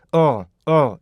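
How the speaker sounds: 어 as a short voiced L, tongue on the palate; dark L sound. Shown as a demonstration. Teacher models the L sound, short dark L. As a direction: say "어" as a short, falling uhl. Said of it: "이 소리가 나야 돼요".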